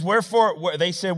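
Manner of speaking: loud, high, fast whining complaint; the people griping loudly in the wilderness; complaining Israelites. Acted. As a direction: hurl the grievance at Moses. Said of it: "look what he said".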